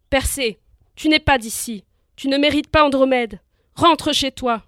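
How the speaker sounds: loud, angry shout at the groom. Acted. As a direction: bellow it at the rival. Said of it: "il hurla".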